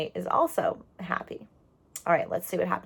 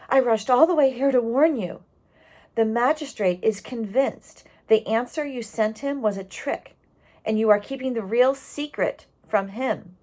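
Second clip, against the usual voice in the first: a touch of breathless urgency, a bit higher and louder; gasping neighbor; 4 semitones higher, 3 dB louder than usual. Acted. Neighbor warning the family after riding hard, mildly breathless. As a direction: hurry the warning out as if winded. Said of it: "the neighbor gasped".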